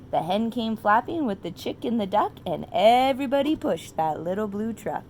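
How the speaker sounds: put-on reading to children. A narrator's reading. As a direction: read it like a bedtime story to a toddler.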